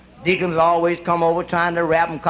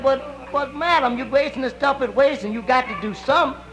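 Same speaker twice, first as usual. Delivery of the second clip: mock pleading deacon; 5 semitones higher than usual. Deacon coaxing the widow, higher mock pleading. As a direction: coax her, stammering a little.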